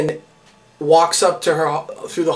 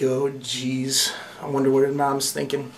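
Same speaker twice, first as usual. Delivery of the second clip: quiet aside; 3 semitones lower, 8 dB quieter than usual. Retold or imitated. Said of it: "I was just like".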